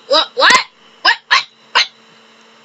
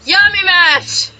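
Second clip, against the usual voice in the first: excited naming; 5 semitones higher, 6 dB louder, slower than usual. Acted. Naming the character with relish.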